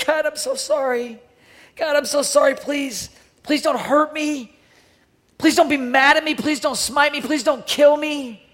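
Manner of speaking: a hammed-up groveling plea for mercy; mock fearful pleading. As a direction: plead like you expect to be struck. Sinner begging God in fear.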